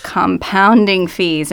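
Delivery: Compounding slowed and punched, weight on pounding; stress on compounding. Shown as a demonstration. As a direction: lean hard on Compounding, drawn out. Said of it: "the emphasis is on the part of the word compounding".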